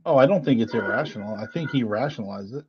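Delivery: flat, even robot voice; robot voice slipping in. Real, not acted. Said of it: "There's my robot voice coming through again".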